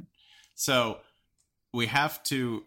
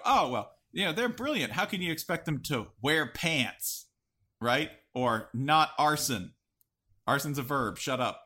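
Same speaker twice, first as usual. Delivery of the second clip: mock indulgent voice; 3 semitones higher than usual. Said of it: "We go".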